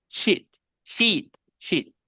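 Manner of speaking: SHEET with short ih, long ee, short ih. Shown as a demonstration. Teacher contrasting hoja and bad word, short and long i. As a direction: alternate quick lax and stretched SHEET. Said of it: "La diferencia es".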